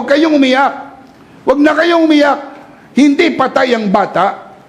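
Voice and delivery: Jesus commanding. Retold or imitated. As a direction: call out over the crowd. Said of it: "sinabihan niya mga tao".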